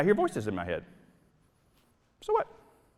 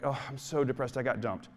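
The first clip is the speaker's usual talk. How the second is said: mock mopey; 4 dB quieter than usual. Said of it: "Or like".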